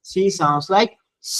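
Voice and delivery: slowly, word by word; slow teaching dictation. Shown as a demonstration. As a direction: spell out the rule slowly for the class. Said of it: "if C is followed by".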